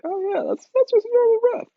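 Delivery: mock nonchalant student; blasé student. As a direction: shrug it off in a silly high voice. Imagined blasé student, contrasting voice.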